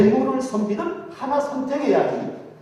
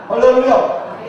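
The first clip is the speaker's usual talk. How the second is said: 할렐루야 loud and falling, laughing; loud laughing hallelujah cry; hallelujah call; 3 semitones higher, 9 dB louder, slower than usual. Real, not acted. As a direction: punch the punchline with a loud 할렐루야. Preacher calls for response.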